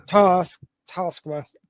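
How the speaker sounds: "task, Taskmaster", dwelling on the imitated vowel; imitated New Zealand pronunciation. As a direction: mimic the Kiwi way of saying "Taskmaster". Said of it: "just the way they say Taskmaster".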